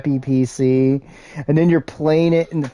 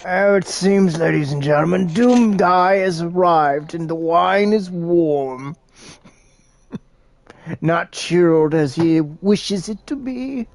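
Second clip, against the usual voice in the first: art critic voice. Pretend. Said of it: "I'll have to be in my art critic voice".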